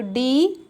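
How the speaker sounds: "डी" with a drawn-out ee; long vowel. Shown as a demonstration. Teacher showing the badi ee matra, long-vowel "डी". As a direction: stretch the ee in "डी". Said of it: "उसमें बड़ी की मात्रा".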